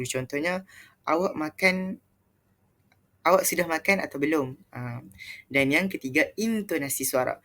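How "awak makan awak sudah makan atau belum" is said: "Awak" pitched up, falling away on "belum"; question intonation. Shown as a demonstration. Teacher showing students how a question mark sounds, questioning tone. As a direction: ask it with a lifted "Awak makan", then settle on "belum". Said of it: "tanda soal ataupun tanda seru".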